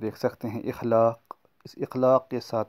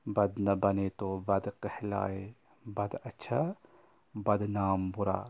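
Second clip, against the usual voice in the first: slow, measured reading of a couplet; slow verse recitation; slower than usual. Shown as a demonstration. Teacher recites a moral couplet to the children, slowly. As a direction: let each half-line land slowly. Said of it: "میں آپ کو ایک شعر بتاتا چلوں".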